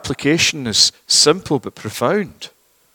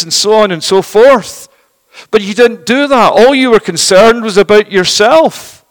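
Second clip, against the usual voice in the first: castigating; 4 semitones higher, 3 dB louder than usual. Acted. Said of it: "God castigates them".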